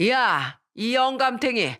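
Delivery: lightly hammed-up scolding wife; mock-yell an accusation at a husband; understated angry outburst; accusing shout. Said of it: "시부한테 소리쳤습니다".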